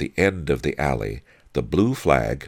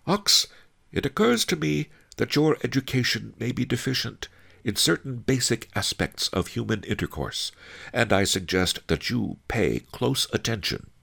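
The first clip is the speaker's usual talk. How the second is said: high character voice, not raised; instructing sage; 9 semitones higher than usual. A narrator's reading. Master Li advising Ox to watch closely, high-voiced instruction. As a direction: lecture your client politely in a high voice.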